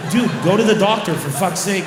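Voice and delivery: loud, fed-up yell at a stubborn guy; exasperated shout. Retold or imitated. Comic telling a hothead to see a doctor, shouting. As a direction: bark it like you've lost patience.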